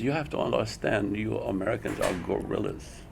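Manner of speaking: put-on light Japanese accent, matter-of-fact. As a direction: quote the teacher in a mild Japanese accent. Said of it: "imitating an accent".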